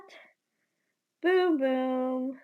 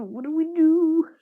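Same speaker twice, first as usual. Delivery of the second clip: panicked shout; 4 semitones higher, 7 dB louder than usual. Acted. Panicked repeated question.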